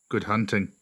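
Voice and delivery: lightly voiced low wolf stranger; outlier wolf. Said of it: "replied the wolf".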